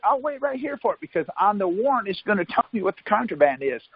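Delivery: high, cocky dare to the cop; daring the cop, pitched high and taunting. Retold or imitated. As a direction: challenge him to go get it. Defying the cop.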